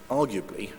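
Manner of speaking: "arguably" set apart by a pause and stressed; deliberately emphasise the word "arguably". Real, not acted. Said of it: "I'll stress the word arguably".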